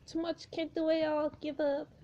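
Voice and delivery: eerie hiss. Acted. Jane's whispery taunt.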